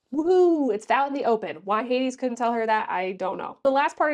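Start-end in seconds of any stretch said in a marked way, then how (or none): 0.1-0.7 high, loud whoop of relief; excited cheer. Real, not acted. Reviewer celebrating the reveal, loud high whoop. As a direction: cheer that it's finally out.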